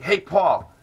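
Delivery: shouted call across the room. Retold or imitated. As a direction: yell his name to get his attention. Heckler calling out between songs.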